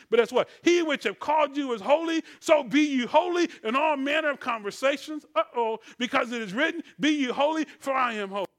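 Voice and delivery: loud, punchy Bible recitation; emphatic scripture preaching. Real, not acted. Preacher urging the church to be holy, emphatic preaching. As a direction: proclaim the verse with force.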